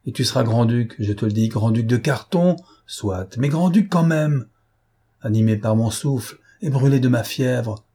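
tirade furieuse, souvent plus haute; écrase ta marionnette de ta volonté; repris de rage. Acted. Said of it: "Repris de rage". (rage exaltée de Lupin)

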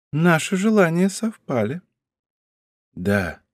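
softly tender, understated; a touch of tenderness he can't suppress. A narrator's reading. Count to princess he longed to see, tender. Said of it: "произнёс граф с нежностью".

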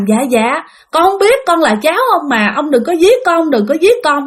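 giọng cao hơn, khẩn khoản xin tha; năn nỉ ông nội đừng giết mình; van xin sợ hãi. Acted. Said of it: "cô mới chắp tay lại". (giọng cao, run sợ van nài)

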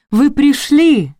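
high, drawn-out happy greeting; delighted. A narrator's reading. Mother-in-law welcomes the arriving children, delighted. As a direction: stretch it out in high-pitched delight. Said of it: "обрадовалась свекровь".

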